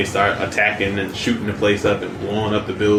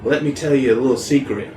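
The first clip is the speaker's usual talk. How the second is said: teasing Harley voice; 4 semitones higher than usual. Retold or imitated. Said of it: "she's like".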